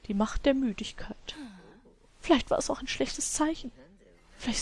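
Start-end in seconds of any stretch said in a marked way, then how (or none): 0.1-1.4 softer dramatic whisper; hammed-up solemn whisper; mock-grave whisper. Dramatic voice for sim.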